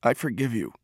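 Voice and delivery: soft, hushed release; quiet forgiveness. A narrator's reading. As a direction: say it softly, as words long held back. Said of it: "words he had never been able to speak".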